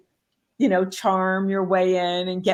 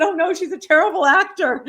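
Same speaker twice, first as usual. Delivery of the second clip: mock dismissive; 10 semitones higher, 6 dB louder than usual. Pretending twin is bad.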